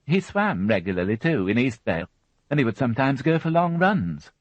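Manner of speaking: a nervous, chattering mother; anxious mother voice. Acted. Mary Rothwell's voice.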